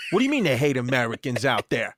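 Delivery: lightly voiced affronted Brooklyn lady; a touch of tough Brooklyn mom, challenging; Brooklyn mother. Friend's mom challenging his trip report, lightly voiced Brooklyn indignation. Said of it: "real deal Brooklyn lady smoking cigarettes".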